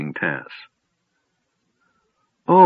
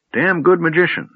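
put-on high, lightly solemn old wizard; a mock-grave verdict from a doddering mage; solemn old man; 7 semitones higher than usual. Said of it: "the old man said solemnly".

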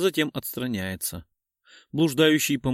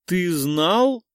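higher and louder, hit знал; stunned question; 8 semitones higher, 5 dB louder than usual. Acted. Lena confronts Artyom over the test, stunned and loud. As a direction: disbelief breaking out. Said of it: "Потрясённо открывает рот".

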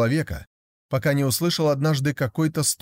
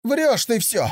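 high, indignant accusation; a touch of childish anger, higher pitched; angry young tiger; 11 semitones higher, slower than usual. Acted. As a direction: call the yak a liar, cross. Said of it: "сказал сердито тигр".

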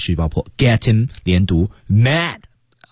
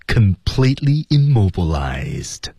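slow, hard-edged emphasis; forceful, ruthless; slower than usual. Shown as a demonstration. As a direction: stretch it out with menace. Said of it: "注意要有力度，要够狠".

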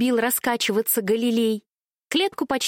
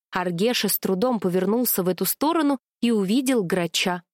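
usual speaking voice

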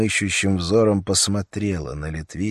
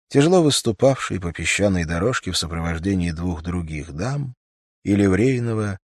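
ordinary delivery

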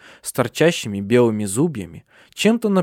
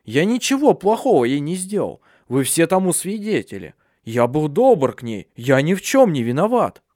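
raised pleading self-justification; lightly voiced defensive protest; 4 semitones higher than usual. Handsome one justifies himself to others, raised defensive voice. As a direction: protest your innocence.

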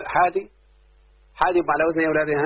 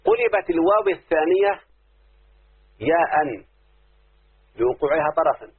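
slow, deliberate rule read-out; slow dictation; slower than usual. Shown as a demonstration. Teacher to pupils, dictating the rule slowly. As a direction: dictate the rule word by word so it sinks in. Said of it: "شوف، اسمع".

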